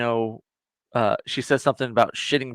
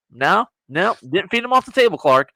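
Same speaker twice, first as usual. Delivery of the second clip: mock defensive retort; 4 semitones higher, 5 dB louder than usual. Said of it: "Well, maybe if you didn't".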